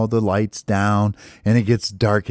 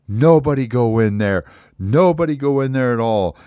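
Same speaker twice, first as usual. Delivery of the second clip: commanding warning; 3 semitones higher, 3 dB louder than usual. Acted. Counselor orders everyone to stay out.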